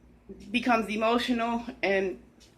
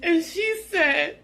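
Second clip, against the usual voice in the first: voice breaking; 8 semitones higher than usual. Real, not acted. Recalling mother's last days.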